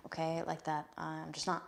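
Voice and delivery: soft, half-whispered aside; hushed admission. Real, not acted. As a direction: let it fall to a near whisper. Admits being unwelcome at church.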